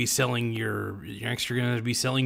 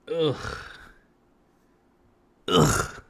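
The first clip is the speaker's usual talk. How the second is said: short throaty "ugh" of revulsion; disgusted groan. Real, not acted. Host recoiling from the fantasies, disgusted groan. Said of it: "I'm visibly disgusted right now".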